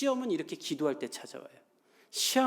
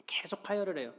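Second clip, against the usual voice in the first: hushed whisper, much softer; whispered aside; 2 semitones higher, 6 dB quieter than usual. Acted. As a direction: drop to a whisper as if sharing something delicate. Preacher tells of the bleeding woman.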